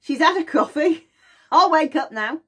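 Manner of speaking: put-on high, bright baby voice with laughs; high baby voice, laughing through it; baby's voice. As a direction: play the giggling baby. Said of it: "And baby learns".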